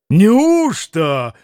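mild astonished question; a touch of amazement. Acted. Mitya turning to Maksimov, lightly astonished. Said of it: "необыкновенное изумление".

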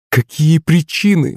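high, slow surprised question. A narrator's reading. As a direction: ask in sudden surprise. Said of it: "удивилась классуха".

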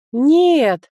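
high, loud cry of no; shouting. Acted. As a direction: yell to stop it. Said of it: "выкрикнула я".

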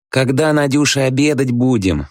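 sweet-talking, coaxing wife for lunch; a high, coaxing ask; affectionate. A narrator's reading. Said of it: "ласково спросил он". (ласково, заискивающе)

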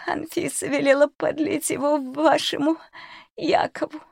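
a scared crone blurting it all out; frightened old cook. Acted. Old cook confesses to the children, frightened crone.

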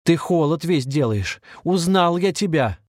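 rising, slow, insistent accusation; excited accusation. A narrator's reading. Володя обличает попутчика, медленно и с нажимом. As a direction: pin him down with the words.

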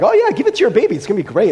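high, bright sales-pitch voice that sinks back down; hammed-up cheerful quack; mock doctor jumping up high to recommend it; mock cheery doctor. Old doctors recommending morphine.

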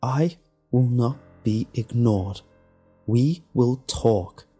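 measured, icy insistence on each word; cold. A narrator's reading. Alex refusing to be ignored by Tom, cold. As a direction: coldly lay down the law, slowing at the end. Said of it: "Alex said coldly".

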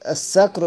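الصقر begun with a thin s; الصقر with plain s replacing saad; word with seen. Shown as a demonstration. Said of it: "الصقر بالسين".

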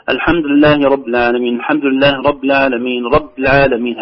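"رب" ending on a bare b, no "i"; missing kasra. Retold or imitated. Teacher imitating what some say, "rab" for "rabbi". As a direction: run "رب" straight into "العالمين" without its vowel. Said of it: "هكذا بدون تحقيق كسرة الباء".

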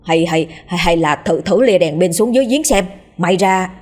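hesitant, repeating the first words; nervous faltering suggestion; stammering. Acted. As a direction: stumble nervously over the start. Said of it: "lắp bắp bảo".

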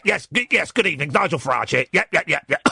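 lightly voiced Farage, close to own voice; a hint of Farage, brisk and clipped yeps; barely changed self-impression; own Nigel Farage voice. Shown as a demonstration. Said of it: "I talk a bit like this".

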